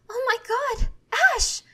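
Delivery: high, loud alarmed cry. A narrator's reading. Serena spotting smoke in the town, crying out. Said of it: "Serena cries out".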